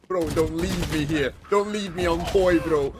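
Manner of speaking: high, loud pleading bro voice; impression of Ardis. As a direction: beg your teammate, hammed up. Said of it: "And you'll do Ardis".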